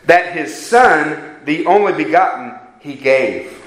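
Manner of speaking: "son" stressed, a slow pause after each phrase; emphatic word order. Shown as a demonstration. Preacher showing the original's emphasis on the gift, stressing "son". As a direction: set "son" out first, slowly and deliberately. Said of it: "the emphasis in the original".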